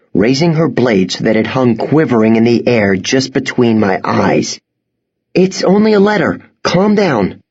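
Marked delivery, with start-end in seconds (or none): 5.3-7.4 nervous reassurance. Acted. Boy placates.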